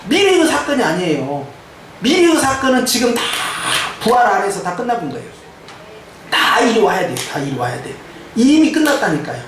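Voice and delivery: animated, emphatic sermon delivery; preaching. Real, not acted. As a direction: drive the victory home to the congregation. Preaches victory to congregation.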